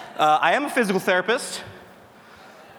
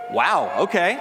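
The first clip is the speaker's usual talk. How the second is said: mock surprise; 3 semitones higher, slower than usual. Real, not acted. Mock surprise at few hands.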